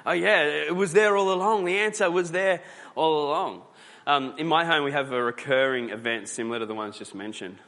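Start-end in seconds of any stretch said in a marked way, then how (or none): 0.1-3.6 higher, louder, triumphant realisation; detective's eureka. Retold or imitated. Detective revealing the answer was there all along, triumphant. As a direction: play a sleuth who has cracked it.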